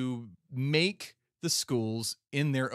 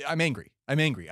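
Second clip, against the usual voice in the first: angry; 5 dB louder, faster than usual. Real, not acted. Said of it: "this is a long rant".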